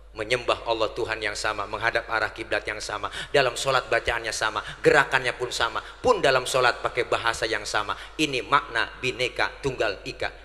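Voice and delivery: low, steady preacher's litany; deklamasi khotbah. Acted. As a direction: recite the list in measured, even phrases. Preacher declaims a set litany. (deklamasi khotbah bernada rendah dan rata)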